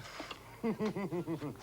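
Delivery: rippling high chuckle; acted chuckle. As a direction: let out a run of giggles. Acted laugh on the phone.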